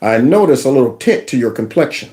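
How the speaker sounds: low, lightly voiced official questioning; lightly voiced official checking complexion; mock official. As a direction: play a suspicious official, a touch low. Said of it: "they're gonna be like".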